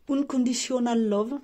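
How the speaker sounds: English name in a French accent; French-flavoured English; self-mocked English accent. Real, not acted. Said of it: "Avec mon super accent anglais".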